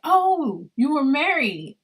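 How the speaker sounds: imitating a nosy woman's surprise. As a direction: play the stranger caught off guard by the news. Woman reacts to ex-husband.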